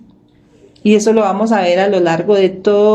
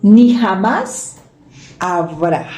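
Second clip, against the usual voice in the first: a preacher stressing "ni jamás habrá" slowly; slow emphatic reading; much slower than usual. Shown as a demonstration. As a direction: lean hard on "ni jamás" word by word. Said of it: "mire lo que dice".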